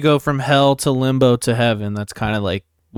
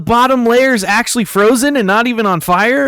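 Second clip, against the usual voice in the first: high, loud cartoon-hero impression; Sonic; 12 semitones higher, 5 dB louder than usual. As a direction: exclaim it as an excitable high-pitched cartoon mascot. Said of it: "That's my Sonic impression".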